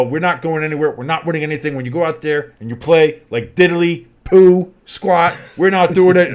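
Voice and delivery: lightly voiced coach rant; Jim Mora quote. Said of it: "He's like".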